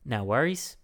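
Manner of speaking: London attempt slipping into Australian accent; lightly imitated easygoing Australian accent; accidental Australian accent. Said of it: "That's Australian".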